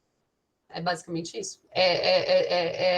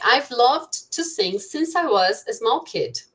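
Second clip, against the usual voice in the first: slow, careful reading of the example; teacher spelling out an example sentence slowly; 3 semitones higher, much slower than usual. Shown as a demonstration. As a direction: read it out slowly for the students. Teacher reads English example slowly.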